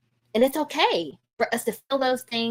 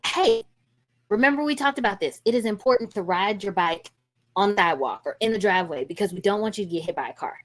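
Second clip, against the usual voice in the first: calm reminder. Shown as a demonstration. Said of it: "that requires some slowing down".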